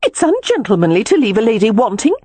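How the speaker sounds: high-pitched heated complaint. A narrator's reading. Lady scolding her departing lover, heated. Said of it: "she said heatedly".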